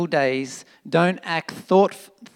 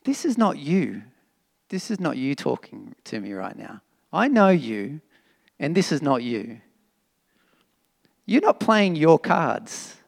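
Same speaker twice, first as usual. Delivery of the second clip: softer and lower, calm and caring; gentle wise words; 3 semitones lower, 4 dB quieter than usual. Retold or imitated. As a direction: talk him down gently, like a trusted friend. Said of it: "he said".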